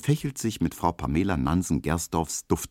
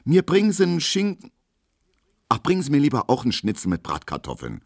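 torn between choices; 8 semitones higher, faster than usual. A narrator's reading. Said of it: "wie sie dabei mit sich kämpft".

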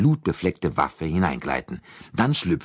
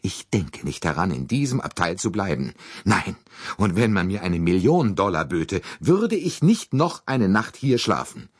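breathless fussy American lady; 5 semitones higher than usual. Acted. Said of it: "begann sie atemlos".

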